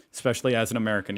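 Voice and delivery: rushed, fast little aside; quick aside. Real, not acted. Fast aside while admitting the national embarrassment. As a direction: toss it off quickly under the breath. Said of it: "part of my duty as an American".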